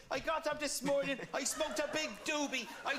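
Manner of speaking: bad Irish accent. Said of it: "you're doing a bad Irish accent".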